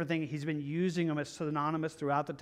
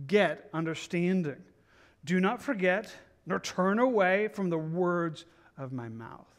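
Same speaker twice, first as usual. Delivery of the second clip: slow, weighty verse reading; emphatic scripture reading. A narrator's reading. Preacher reads a father's charge to his son, slow and emphatic. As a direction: read it out as a solemn command, word by word.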